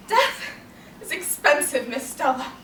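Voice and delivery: bitter reproach. Acted. Bitter aside within the tirade.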